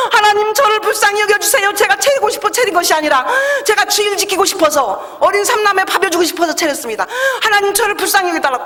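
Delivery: re-enacted pleading prayer, pitched high; desperate life-or-death prayer. Praying to God to save the new salon, desperate pleading. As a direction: plead urgently with God, retelling it. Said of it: "하나님 앞에 생명걸 기도했습니다".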